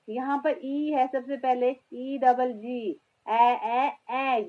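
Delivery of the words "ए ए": loud, isolated open "ए, ए"; short E sound. Shown as a demonstration. Teacher sounding out the start of egg, loud "ए, ए". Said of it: "ई कौन सी sound दे रहा".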